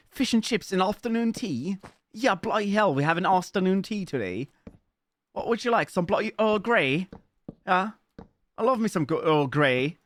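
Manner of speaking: high, hammed-up British tea-time voice; mock British accent. Streamer parodying British afternoon tea, mock British accent.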